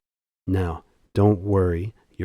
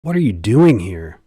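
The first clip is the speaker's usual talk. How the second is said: retold shout; 5 dB louder than usual. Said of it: "she patiently shouted".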